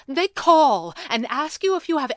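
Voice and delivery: loud, high, exasperated explaining; very frustrated. A narrator's reading. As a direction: explain it as if fed up. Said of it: "sounded very frustrated".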